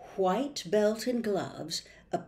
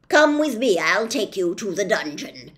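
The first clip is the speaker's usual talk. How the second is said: loud, slowish officious policeman; pompous policeman; 6 dB louder than usual. Acted. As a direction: lay down the law with bluster. Judge leads away.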